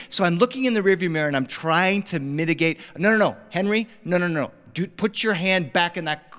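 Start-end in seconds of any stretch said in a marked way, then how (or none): 3.0-6.3 urgent mock parental scolding, pitched up; dad intervening. Dad to son Henry fighting in the back seat, urgent scolding.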